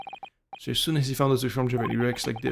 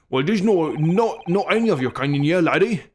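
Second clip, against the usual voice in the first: Irish governor; 3 semitones higher than usual. Acted. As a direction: lean into an Irish brogue on laddie. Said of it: "he's kind of Irish".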